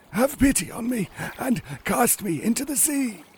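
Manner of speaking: very high, breath-starved fish voice; sighing, gasping pike. Acted. Stranded pike appealing to Ivan, high and gasping. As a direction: sigh it high, gasping between words. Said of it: "on the beach lay gasping a pike".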